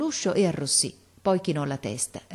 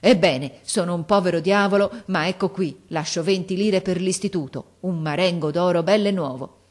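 furious shout; 2 semitones higher, 5 dB louder than usual. Acted. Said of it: "gridò come un furioso".

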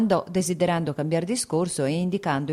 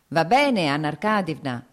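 louder call tossed out in passing; shouted greeting; 5 dB louder than usual. Acted. Vasinka gallops past and calls to Anna, loudly. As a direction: call it out loudly while riding by. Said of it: "gridò".

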